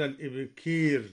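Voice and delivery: الإبكير said "al-ibkeer" for al-ibkaar; imala. Shown as a demonstration. Teacher naming al-Duri's reading of الإبكير, with imala. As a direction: tilt the last a of الإبكير towards ee. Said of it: "وأمال".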